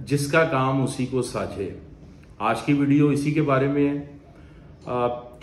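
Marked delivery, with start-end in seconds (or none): 0.1-1.8 slow, weighty quoting of the saying; measured, proverb-reciting tone; slow proverb recital. Shown as a demonstration. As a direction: lay out the proverb slowly, word by word. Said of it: "Urdu की एक बहुत मशहूर कहावत है".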